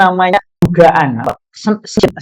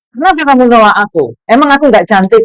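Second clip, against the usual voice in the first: a touch higher, hurt and miffed; offended campus queen; 6 semitones higher, 3 dB louder than usual. Retold or imitated. Campus queen to the Muslim student, mildly offended. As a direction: play the rejected beauty lightly.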